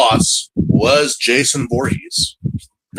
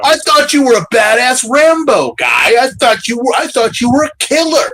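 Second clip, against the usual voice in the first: higher mocking taunt; 6 semitones higher than usual. Taunting Ren, higher mocking disbelief. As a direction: sneer at him. Mocking a fake tough guy.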